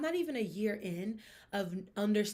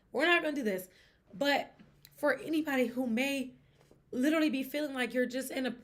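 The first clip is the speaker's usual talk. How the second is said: louder and higher, voice swelling with feeling; raised, heartfelt pep talk; emotional, pushing through; 5 semitones higher, 5 dB louder than usual. Real, not acted. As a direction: fight back the tears by going big. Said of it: "makes me emotional".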